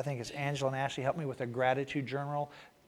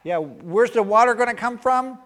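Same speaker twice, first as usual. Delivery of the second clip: scoffing, higher mock jeer; mocking crowd; 8 semitones higher, 10 dB louder than usual. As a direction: tease the boat builder. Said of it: "everybody laughed, go".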